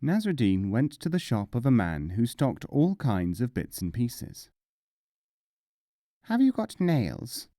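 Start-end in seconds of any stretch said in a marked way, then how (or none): 6.2-7.5 mullah asking. Acted. Mullah questions shopkeeper.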